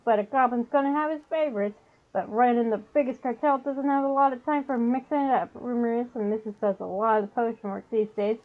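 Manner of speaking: put-on goblin with a New York accent; fast-talking New York goblin dealer. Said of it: "Trying to do the New York accent".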